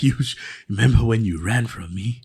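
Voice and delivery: menacing taunt, cracking into laughter; a villain taunting, breaking up laughing; mock villain trash talk. Friend imitating a fantasy villain's trash talk, laughing. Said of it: "it did that mad shit talk".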